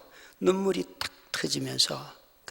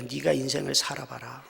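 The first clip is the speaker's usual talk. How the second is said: bitter retort; 4 semitones lower, 4 dB quieter than usual. Retold or imitated. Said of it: "한편의 마음은요".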